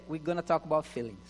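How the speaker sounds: with attitude. Shown as a demonstration. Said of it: "look somebody with attitude and say".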